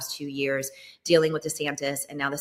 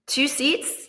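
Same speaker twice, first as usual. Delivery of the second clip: higher, louder disbelieving question; incredulous repeat; 11 semitones higher, 3 dB louder than usual. Real, not acted. To the host, stressing how few seats decide power. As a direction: sell how shocking it is.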